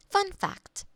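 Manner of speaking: chirpy restart. Acted. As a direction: relaunch it like a cheery jingle. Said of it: "Maybe you'd like a different fun fact".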